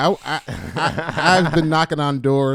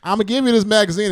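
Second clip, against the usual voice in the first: high, fast, chirpy little salesman; a five-year-old chirping back at the door; cheery kid pitch; 7 semitones higher, 4 dB louder, faster than usual. Retold or imitated. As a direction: push the magazine brightly and quickly.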